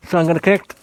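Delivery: talking through a phone gripped in the teeth; phone held in teeth. Real, not acted. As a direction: mouth full, words around the phone. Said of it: "I take that out of my mouth".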